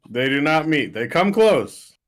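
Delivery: loud, high-pitched protest; emphatic denial. Acted. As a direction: blurt out an insistent correction. Emphatic joking denial of tongues meeting.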